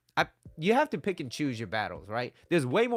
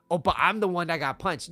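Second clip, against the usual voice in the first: higher, louder imitation of an indignant excuse; mock protest; 6 semitones higher, 6 dB louder than usual. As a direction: plead the injured party, hammed up. Voices the excuse of someone punched.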